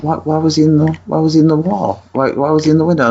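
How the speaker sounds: high-pitched, stammering mock disbelief; imitating baffled wife. Husband imitates wife asking about the dog, high and baffled. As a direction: question it in a put-on high voice.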